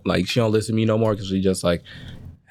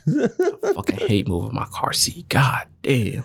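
exasperated grumble; slower than usual. Retold or imitated. Acted grumbling about moving car seat.

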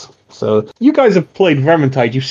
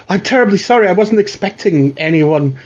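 a touch of a flustered, apologetic woman; a hint of tearful embarrassment, slightly raised; lightly voiced weeping mother; 5 semitones higher than usual. Poor mother apologising to the Watch for her home, a touch tearful. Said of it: "a woman who's clearly been weeping".

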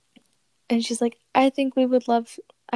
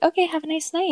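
mock sweet; 7 semitones higher than usual. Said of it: "and I'm like".

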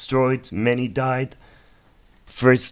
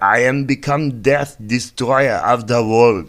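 solemn pronouncement; 2 semitones higher, 4 dB louder, slower than usual. Retold or imitated. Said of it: "he was like".

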